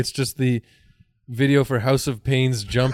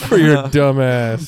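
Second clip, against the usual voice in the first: laughing. Acted. Ad parody.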